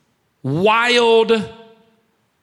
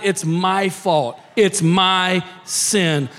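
impassioned confession; 5 semitones higher than usual. Retold or imitated. Preacher voicing David's confession.

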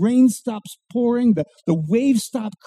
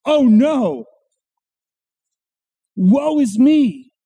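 anguished cry. Retold or imitated. Isaiah crying out to God in dread. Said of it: "what's his response?".

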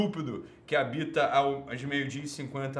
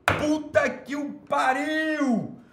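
much higher, slow drawn-out exclamation; hammed-up outraged cry; 11 semitones higher, 4 dB louder, much slower than usual. Real, not acted. Host outraged at a viewer's comment, hammed-up cry. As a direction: wail it out theatrically.

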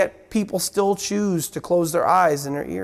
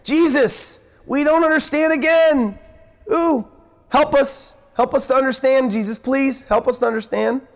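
higher, eager pleading for help; impetuous Peter pleading; 4 semitones higher than usual. Retold or imitated. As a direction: beg Jesus to explain, a bit breathless. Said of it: "impetuous Peter jumps in".

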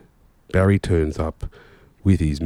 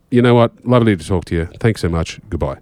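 louder, brisk wrap-up; cheerfully bail out of the call; hasty brush-off; 3 semitones higher, 6 dB louder than usual. Retold or imitated. Bo giving up on the confused painter, hurrying off. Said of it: "I just went".

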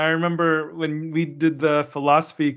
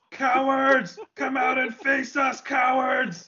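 high mock shout of cowards; taunting shout; 9 semitones higher, much slower than usual. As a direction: jeer like a playground bully.

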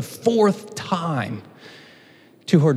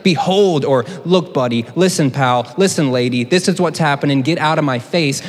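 casual Naomi, brushing Ruth off; mock brusque Naomi; 3 dB louder than usual. Naomi telling Ruth to get lost, hammed-up and dismissive. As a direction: play Naomi as a dismissive mother-in-law, a bit raised. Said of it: "she says, like".

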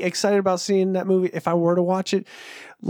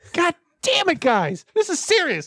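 booming arrogant alien overlord; 12 semitones higher than usual. Pretend. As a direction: bellow down at an inferior race. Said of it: "When you yell".

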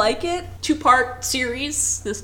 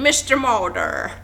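bad Jimmy Stewart; slower than usual. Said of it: "now I sound like Jimmy Stewart".

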